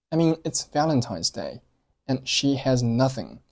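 "it's" passed over lightly, "Valentine's Day" in full; weak it's. Shown as a demonstration. Teacher modelling the sentence for learners, lightly reduced "it's". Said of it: "it's做了弱读".

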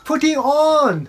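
very slow, drawn-out; slow English demo; slow teaching read. Shown as a demonstration. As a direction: spell it out word by word. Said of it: "履くってことですね".

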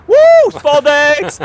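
slow, loud, drawn-out cheer; hyped announcer. Pretend. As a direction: show it off like a presenter. Showing off his costume.

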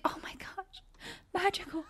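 high soft whisper. Real, not acted. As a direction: hush in delight. Babies asleep, quiet.

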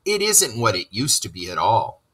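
high, rising list from a proud water rat; enthusiastic Rat. Acted. Rat tells Mole about his river, high and rising.

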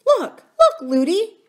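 put-on very high, loud little-girl cry; excited child princess. A narrator's reading. Princess calling to her running nurse, high excited cry. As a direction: call out high to grab attention. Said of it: "She was always saying".

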